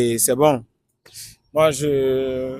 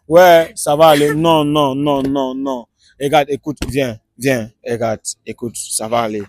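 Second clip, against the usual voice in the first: calm someone who is crying, settling down gradually; gentle repeated comfort; consoling. Real, not acted. Host consoles the crying woman.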